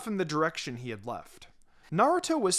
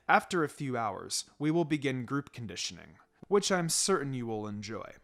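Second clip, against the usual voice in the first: pleasant menace; 4 semitones lower than usual. Acted. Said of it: "His pleasant voice sent shivers".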